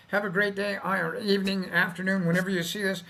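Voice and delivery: yawning while talking; words through a yawn. Real, not acted. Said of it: "I am so sorry about yawning".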